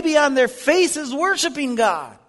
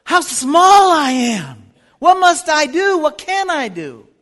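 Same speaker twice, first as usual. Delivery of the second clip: crying out; 6 dB louder than usual. Pretend. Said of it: "and say".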